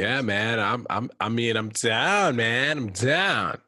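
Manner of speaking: drawling surfer-dude agreement, pitch swooping on "down"; Californian surfer dude. Acted. Co-host agrees to talk like that, surfer dude. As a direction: play along as a laid-back surfer bro.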